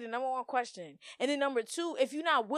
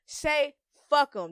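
slow inner dismissal; 4 semitones higher, 4 dB louder, much slower than usual. Shown as a demonstration. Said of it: "In your head".

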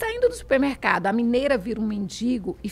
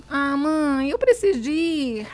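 mock whiny teenager complaining to her mum; complaining teen daughter; 2 semitones higher, 3 dB louder, slower than usual. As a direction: put on a sulky daughter's groan. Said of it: "ela reclamará".

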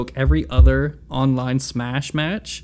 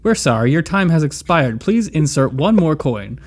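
phone menu voice. Pretend. Pretend coin machine recording.

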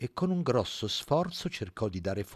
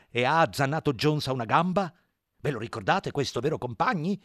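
higher, smooth-talking pig; pig character voice; 4 semitones higher, 6 dB louder than usual. Acted. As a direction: persuade like a sly propagandist. Squillo ends speech.

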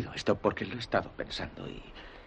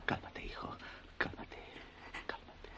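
softer and softer, fading to a whisper; soothing whisper; 13 dB quieter than usual. Acted. Father whispering to calm his son, fading softly. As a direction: hush him gently, letting it fade out.

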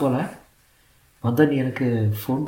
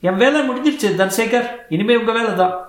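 higher, lightly flirtatious boss voice; playful lady boss; 4 semitones higher than usual. Acted. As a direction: tease him gently from above. Telugu lady boss speaks.

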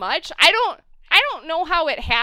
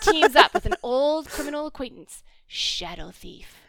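hammed-up dramatic teaser, slowing down; slow, ominous reveal of the name. Shown as a demonstration. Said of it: "in my dramatic voice".

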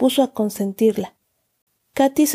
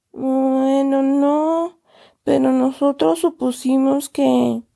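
trembling voice; 4 semitones higher, slower than usual. A narrator's reading. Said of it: "La voz de Agustín temblaba".

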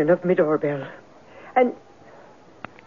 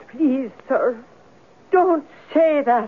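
fearful pleading; 5 semitones higher, slower than usual. Acted. Landlady pleading with investigator.

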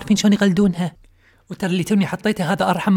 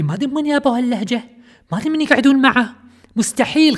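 mock disbelief; 5 semitones higher than usual. Mocking the odd media dialect.

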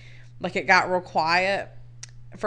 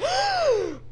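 much higher, slow stretched oh my God; shocked; slower than usual. Retold or imitated. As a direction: gasp it in horrified disbelief. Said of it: "and I was like".

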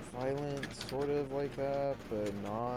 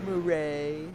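loud movie-quote Murray; mock catchphrase, projected; Joker impression; 3 semitones higher, 8 dB louder than usual. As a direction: call the name like the Joker. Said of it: "That's how he says it".

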